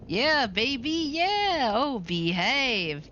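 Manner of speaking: slow, drawn-out swinging catchphrase; hammed-up shagadelic swagger; groovy spy impression. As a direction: ham it up like a sixties spy. Cat-lady reply in famous catchphrase.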